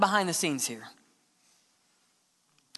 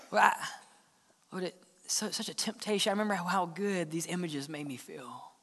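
much softer, hesitant confession; quiet confession; 2 semitones lower, 7 dB quieter than usual. Acted. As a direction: murmur it like a guilty admission. Sinner confessing temptation to God.

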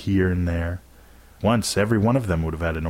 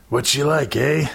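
high-pitched, playful father voice; teasing dad; 7 semitones higher than usual. A narrator's reading. Dad quizzing his son about a new friend, teasing. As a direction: tease your child about a new friend.

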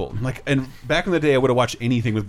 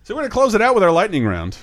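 announcer voice; 7 semitones higher, 3 dB louder, faster than usual. Acted. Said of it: "I'll stop talking my announcer voice".

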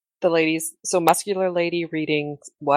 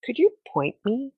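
sultry voice; 3 semitones higher than usual. Acted. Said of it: "using your sultry voice".

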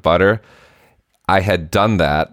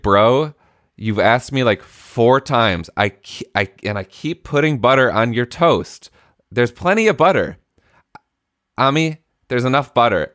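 exasperated dad; 6 semitones higher than usual. Retold or imitated. Dad exasperated at son over butter.

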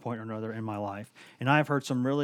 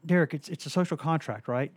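higher, louder exasperated pleading; retelling his own argument; 6 semitones higher, 3 dB louder than usual. Retold or imitated. Reporter arguing taxes with the coach, high exasperated plea. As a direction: push back hard, half laughing. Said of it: "and then I said".

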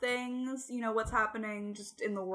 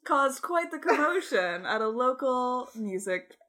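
newscaster voice; 4 dB louder than usual. Pretend. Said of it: "You sounded like a newscaster".

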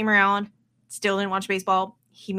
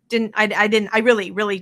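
ordinary talk, nothing marked

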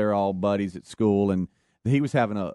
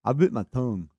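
bitten-tongue talk. Retold or imitated. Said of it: "when I say he's talking like that".

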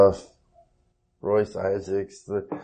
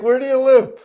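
imitating Macho Man; 13 semitones higher, 7 dB louder than usual. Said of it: "And I was like".

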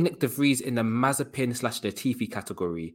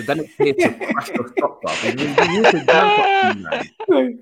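laughing squeal; 7 dB louder than usual. Acted. Mock panic over Yuki stock crashing.

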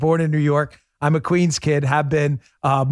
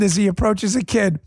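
ordinary delivery

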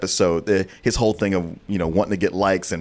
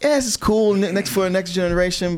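mock impressed, dismissive; 9 semitones higher than usual. Quoting own dismissive reaction.

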